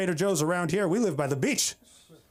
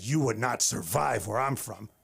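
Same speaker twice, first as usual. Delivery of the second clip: mock-tough wife, pitched lower; dropped voice; 4 semitones lower than usual. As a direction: say it low, as a warning. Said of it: "She dropped her voice to say that".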